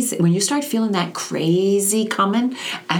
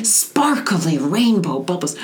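slow, soothing guided imagery; aunt guiding a child's calming visualization; 2 semitones higher, much slower than usual. Shown as a demonstration. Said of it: "And I'm like".

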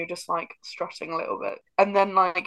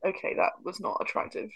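embarrassed aside; 6 dB quieter than usual. Retold or imitated. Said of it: "just be like".

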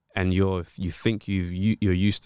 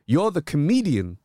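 booker voice; 8 semitones higher, 5 dB louder, slower than usual. Retold or imitated. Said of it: "they say to me".

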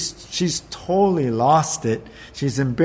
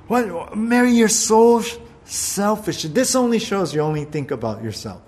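mock scold; 6 semitones higher than usual. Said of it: "look at Mary just sitting there".

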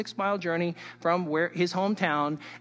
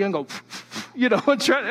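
amused mock ritual; 3 semitones higher, 4 dB louder than usual. Real, not acted. Mocking Elijah's ritual.

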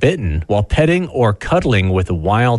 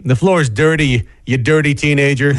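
lightly voiced scolding dad, pitched up; scolding dad impression; 4 semitones higher than usual. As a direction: mimic a dad telling off a teenager. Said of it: "I love doing an impression of you".

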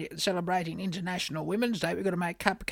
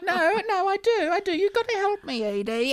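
high, louder, frantic begging; desperate pleading; 12 semitones higher, 4 dB louder than usual. Acted. Begging her co-host to help with the audition, desperate pleading. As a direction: plead in a rising panic. Pleads after being told no chance.

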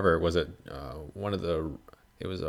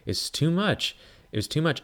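much higher, incredulous; exasperated; 10 semitones higher than usual. Real, not acted. Reacting to Ben's overkill, high exasperated. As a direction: protest that it went too far.

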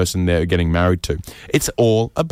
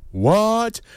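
much higher, hammed-up shocked what; a big mock gasp of a question; viewers gasping; 11 semitones higher than usual. Viewers at home reacting, hammed-up high shock. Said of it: "everyone at home, right, was like".

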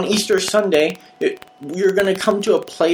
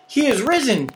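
proclaiming; 6 semitones higher than usual. Shown as a demonstration. Pastor's call in demonstrated exchange.

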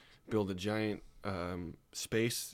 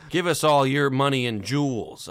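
put-on louder Spanish accent holdup demand; 3 semitones higher, 6 dB louder than usual. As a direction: shout the stickup with a Spanish accent. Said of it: "that's my Spanish accent".

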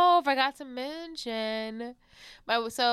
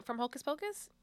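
whispering; 5 semitones higher, 8 dB quieter than usual. Real, not acted. Answering quietly mid-show.

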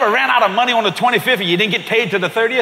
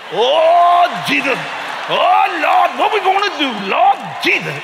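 higher, hammed-up fretting over the baby; mock panicked parent; 4 semitones higher than usual. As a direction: wail it like a fussing relative. Mocking a panicked white parent.

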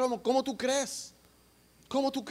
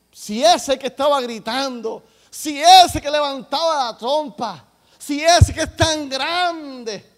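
loud, pitched-up protest of a puzzled pupil; niño incrédulo; 4 semitones higher, 9 dB louder, slower than usual. Acted. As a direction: insist in disbelief, drawing out the last phrase. Child protests to teacher in story. (niño que reclama asombrado)

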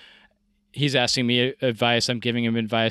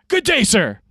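mock polite; 9 semitones higher, 6 dB louder than usual.

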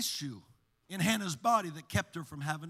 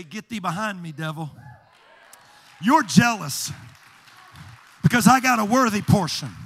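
defiant rebuke; 2 semitones higher, 12 dB louder than usual. Acted. Believer rebuking the devil, building to a shout. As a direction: rebuke the devil and get louder. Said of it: "what you gotta do is just say".

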